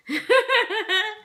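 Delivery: short, high, happy laugh; excited laugh. Real, not acted. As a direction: giggle with delight. Excited over finished slow cooker meal.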